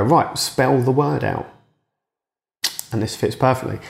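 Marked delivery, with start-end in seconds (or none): 0.0-1.5 parent voice. Retold or imitated. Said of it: "your mum and dad would sit there and go".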